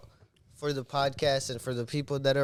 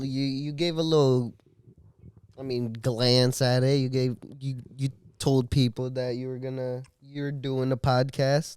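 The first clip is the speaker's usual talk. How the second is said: stuttering. Real, not acted. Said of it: "I'm a little stuttering from that shot now".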